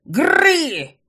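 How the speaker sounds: high, loud, despairing cry; desperate roar. A narrator's reading. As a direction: howl it out in despair. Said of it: "таким отчаянным".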